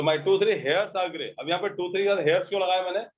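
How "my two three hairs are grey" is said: very slow, words spaced out; slow model sentence. Shown as a demonstration. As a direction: repeat it slowly for the class. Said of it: "teacher repeats answer slowly". (धीरे दोहराया गया वाक्य)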